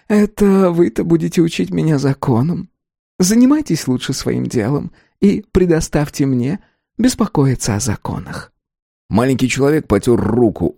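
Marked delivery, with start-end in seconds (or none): 0.1-8.5 high-pitched, haughty rebuke; insinuating little man. A narrator's reading. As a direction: put them in their place, smugly.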